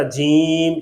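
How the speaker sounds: جیم with the long ee in the nose; nasalized vowel. Shown as a demonstration. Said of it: "یہ بھی آواز غلط ہے".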